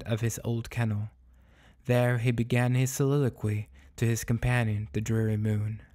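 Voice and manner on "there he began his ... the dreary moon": measured, clearly articulated storytelling; story narration. A narrator's reading. Narrator introducing the dog's soliloquy to the moon, measured storytelling. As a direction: read it out as literary fiction.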